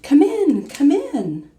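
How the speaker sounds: high voice calling from a distance; faraway voice. Acted. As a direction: call from far off in the house. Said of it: "a faraway voice called".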